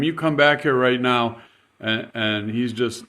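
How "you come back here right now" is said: retold yell. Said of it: "she's screaming at him".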